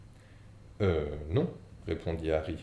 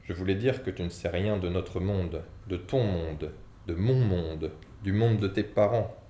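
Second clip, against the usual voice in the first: building anger. Acted.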